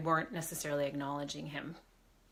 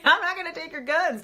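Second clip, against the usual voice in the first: much higher and louder, hammed-up promise; mock reassurance; 10 semitones higher, 8 dB louder than usual. Promising Grandpa's spirit she won't take the guns, loud high mock vow. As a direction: squeal it out like a teasing vow.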